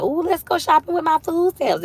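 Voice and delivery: high, mock-showy shopper voice; a hammed-up bragging food stamp shopper; mocking herself. To her audience, mocking how she'd act on food stamps. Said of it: "I could be like".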